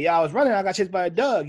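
lively mock Baltimore accent; imitated Baltimore accent. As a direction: mimic a Baltimore woman telling it. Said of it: "some Baltimore shit".

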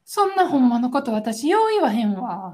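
feigned modesty with the stress on よう; coyly declining to say the harsh truth; mock modest reply. Acted reply in example dialogue.

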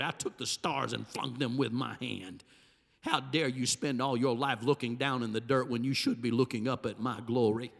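a grieving creator speaking; heartbroken God. Acted. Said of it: "hear the heartbreak of God".

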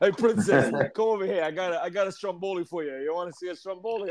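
put-on sleazy come-on in a Brooklyn accent; lightly hammed Brooklyn flirt; Brooklyn Mario. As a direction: call her over like a Brooklyn guy. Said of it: "talk like a regular Brooklyn".

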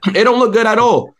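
high, whiny mock sob; mock crying. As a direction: whine it out like you're close to tears, but joking. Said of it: "I'm about to cry right now".

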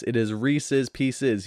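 "Reese's Pieces" said slowly, each word spelled out; teaching the right way to say "Reese's"; slow careful Reese's. Shown as a demonstration. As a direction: lay out "Reese's" deliberately, slow and clear. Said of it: "There's an apostrophe S".

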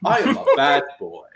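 matter of fact. Acted. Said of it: "very matter of fact".

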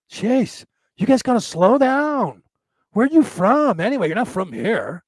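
hammed-up surfer with swooping pitch; put-on surfer voice, swoopy tune; gay surfer guy. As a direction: fuss like an exasperated gay surfer dude. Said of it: "gay surfer guy".

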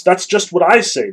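mildly acted outburst; sudden cry. A narrator's reading. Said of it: "the boy Smurov suddenly cried".

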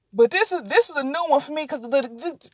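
halting, repeated starts; stuttering. Real, not acted. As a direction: trip over the words. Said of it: "I'm stuttering now".

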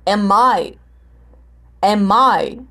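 "am I" starting firm and dropping away; falling tune on "am I"; strong start, falling end. Shown as a demonstration. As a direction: hit the start of "am I", let the end decline. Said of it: "Potência no início, declínio no final".

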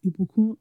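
"Ibukun" with Nigerian oo vowels and tune; name with vim. Retold or imitated. Customer giving her name at the pharmacy, "Ibukun" in Nigerian form. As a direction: say "Ibukun" melodically, lifting at the end.

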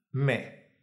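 Me with a clear, open E. Shown as a demonstration. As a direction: mark the vowel in Me crisply and openly. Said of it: "Una E muy clara y abierta".

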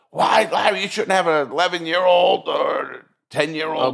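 high, loud mock scolding; scolding callers. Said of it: "people started calling".

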